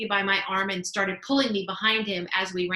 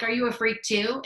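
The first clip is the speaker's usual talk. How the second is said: a hint of a higher, mocking bully voice; 4 semitones higher than usual. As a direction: lightly parrot the bully's sneer. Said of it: "He was like".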